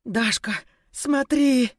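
a scared woman points at the floor; frightened call. Acted. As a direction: call her friend over in alarm. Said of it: "испуганно глядела Мила".

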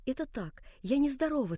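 soft, hushed insisting through held-back sobs; a quiet daughter's tearful reassurance; choking back tears. A narrator's reading. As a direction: murmur it as if tears are close. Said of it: "твердила она, задыхаясь от внутренних подавленных слёз".

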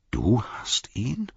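slow, amazed question rising at the end; astonished. A narrator's reading. Frodo to Sam on learning he has the Ring, astonished. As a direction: draw it out in disbelief, lifting into a question. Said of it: "staunte Frodo".

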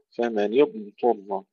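slow فمن اضطر, ض drawn out and heavy; correct emphatic dad. Shown as a demonstration. Teacher models the right ض for students. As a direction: lean on a full, heavy ض then ط. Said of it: "تفخيم وإظهار واستطالة".

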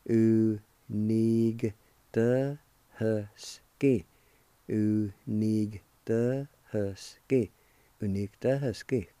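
"Unigtahusci" drawn out, then split as "Unig- the husky"; slow "Unigtahusci", then break it into "Unig" and "the husky"; slow demo. Shown as a demonstration. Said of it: "pronounce the G sound with the N I like this".

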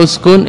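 اسكن opening on a "u" sound; اسكن with its first vowel a damma; damma on hamza. Shown as a demonstration. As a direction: say اسكن as "uskun". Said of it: "وضمها في".

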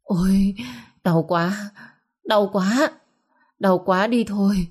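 rising, pitiful groans of pain; mild acted moan of pain, pitch climbing. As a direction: whimper it out like a stomach cramp won't let go. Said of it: "tiếng rên rỉ vang khắp cả căn phòng".

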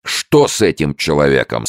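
loud, high fierce question. A narrator's reading. Lieutenant asks the sergeant about the soldier, fierce. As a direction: demand it with fury. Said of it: "свирепым голосом".

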